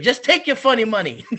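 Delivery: high, laughing quote of the comedian; mock cop line through a laugh; laughing impression. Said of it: "And he's like".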